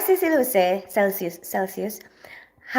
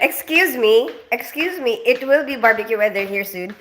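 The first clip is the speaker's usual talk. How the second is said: mock indignation. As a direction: object in playful indignation. Objecting to jibe about England's weather.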